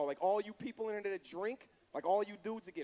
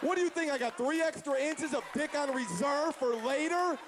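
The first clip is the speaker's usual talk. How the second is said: exasperated rant; 6 semitones higher than usual. Retold or imitated. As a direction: snap back at the girlfriend, high and fed up. Ranting back at the girlfriend.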